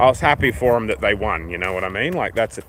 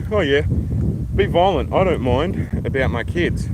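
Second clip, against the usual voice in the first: permissive parent; 3 semitones higher, slower than usual. Acted. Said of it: "that guy that's like".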